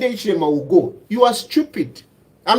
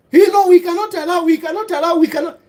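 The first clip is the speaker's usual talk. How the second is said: higher-pitched mock objection; mimicked protest; 5 semitones higher, faster than usual. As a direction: parrot the objectors, pitched up and repetitive. Mimicking opponents' protest against Mundubile.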